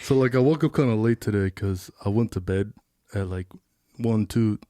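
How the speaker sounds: impression of a friend. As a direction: imitate a friend, pitched low. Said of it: "doing an impression of you".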